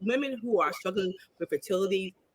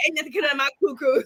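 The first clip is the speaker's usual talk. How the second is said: quote through laughter; 3 semitones higher, faster than usual. Retold or imitated. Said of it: "she said".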